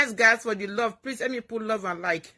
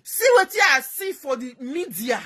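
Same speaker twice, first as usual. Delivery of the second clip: retold outburst; 5 semitones higher, 4 dB louder than usual. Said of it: "Me dey tell una say".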